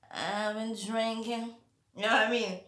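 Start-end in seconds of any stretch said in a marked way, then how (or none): 0.1-1.5 slow repeat. Real, not acted.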